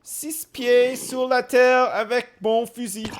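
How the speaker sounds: slow, high hammed-up menace; mock threat. Man mock-threatening in French with his rifle, hammed-up. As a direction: growl a playful threat.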